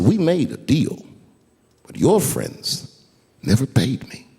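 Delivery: slow, measured retold correction; gentle explanation. Old mobster correcting young comic in kitchen, gently. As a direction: lay it out slowly, pausing between phrases. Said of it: "he stopped me gently".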